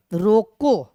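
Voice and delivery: loud, stretched single word; drawn-out dictation. Shown as a demonstration. Teacher writing the word on the board, drawn-out dictation. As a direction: say it slowly as if writing it out.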